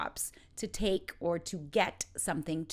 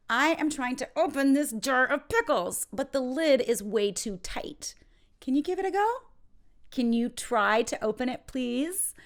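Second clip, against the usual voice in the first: raised, louder voice of mock struggle; struggling plea; 6 semitones higher, 4 dB louder than usual. Someone asks for help opening a pickle jar, struggling plea. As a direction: plead for help, pitch climbing on the questions. Acting out stuck jar request.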